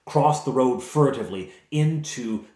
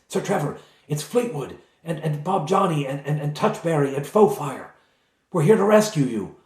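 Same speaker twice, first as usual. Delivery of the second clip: higher-pitched, stumbling introductions; eager rescuer; 5 semitones higher, 4 dB louder than usual. Acted. Rescuer introducing the party through the grate, eager. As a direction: build to a louder announcement of rescue. Plays rescuer calling to captive.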